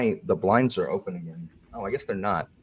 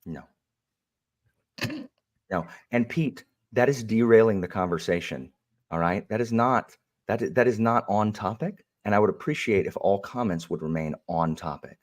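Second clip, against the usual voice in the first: prim moderator voice; 3 semitones higher than usual. Pretend. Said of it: "toned down Alan".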